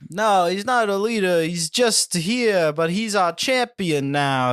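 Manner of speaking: slow, slightly put-on alien-human voice; mildly hammed alien host; slow, light alien voice; alien impersonating a human. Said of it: "an alien doing a human impersonation".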